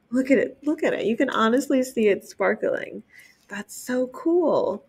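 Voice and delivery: real delight at the sparkles; excited gushing. Real, not acted. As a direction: gush over the sparkly picture. Librarian gushing at sparkly pages.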